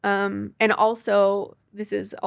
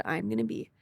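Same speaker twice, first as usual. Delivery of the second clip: retold crying; 3 dB quieter, faster than usual. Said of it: "and I started crying".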